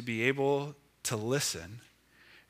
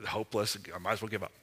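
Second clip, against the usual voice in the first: mock despair; 6 semitones lower, 9 dB quieter, faster than usual. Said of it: "we then go".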